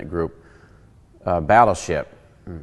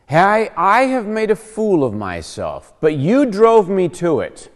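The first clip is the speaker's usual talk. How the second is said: high, loud exasperated outburst; 6 semitones higher, 4 dB louder than usual. Acted. Paul reproaching the Corinthians, exasperated raised voice. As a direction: throw the blame back at them, voice raised. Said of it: "he's getting a little exasperated".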